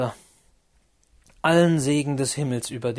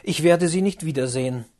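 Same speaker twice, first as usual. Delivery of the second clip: exclaimed; 2 semitones higher, 5 dB louder than usual. Acted. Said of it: "rief er aus".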